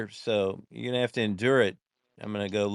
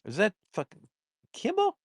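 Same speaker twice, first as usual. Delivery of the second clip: incredulous; 11 semitones higher than usual. Real, not acted. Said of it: "Kimball does not have such creative talent".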